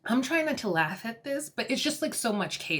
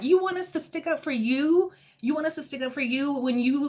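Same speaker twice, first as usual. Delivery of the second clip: raised, incredulous mock challenge; mock-outraged quote, higher and pushy; retold indignant retort; 5 semitones higher, faster than usual. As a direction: throw the demand back, pitched up. Retelling Melissa's indignant retort.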